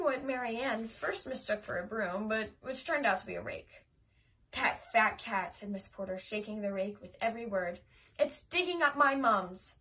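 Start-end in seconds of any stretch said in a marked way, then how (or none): 4.5-5.5 put-on slow, grumbling old neighbour; cranky old woman. Old neighbour complaining about the cat, slow grumble. 8.2-9.7 put-on loud, slow angry old woman; angry complaint. Old neighbour scolding about her flowers, loud and slow. Neighbour shaking rake angrily.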